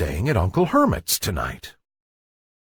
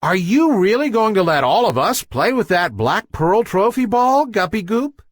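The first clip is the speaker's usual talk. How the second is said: higher, eager chorus of little fish; little guppies asking; 10 semitones higher, 4 dB louder than usual. Acted. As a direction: ask it like excited young guppies.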